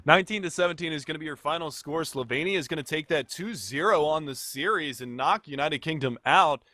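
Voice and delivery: esports final-score call. Real, not acted. Caster calls the final result.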